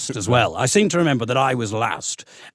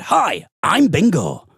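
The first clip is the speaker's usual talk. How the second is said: slow, mechanical teddy voice; like a recorded toy; lightly voiced talking teddy; toy voice box; 4 semitones higher, 4 dB louder, much slower than usual. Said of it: "I pressed the button, and it said".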